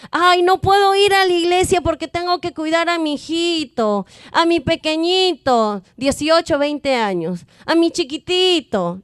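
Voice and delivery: hammed-up parent fussing over a grown child; mock excuse-making parent. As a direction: play the doting parent pleading they can't come. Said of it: "hay veces uno dice".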